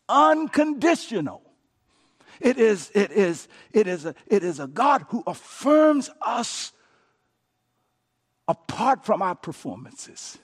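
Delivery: loud, ringing emphasis; emphatic preaching. Real, not acted. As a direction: hammer the word home. Preacher's climax.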